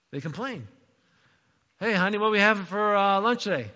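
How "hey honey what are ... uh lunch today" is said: fast, louder mock complaint; a hungry husband grumbling; mock whiny husband. Husband asking his wife about lunch, mock whiny.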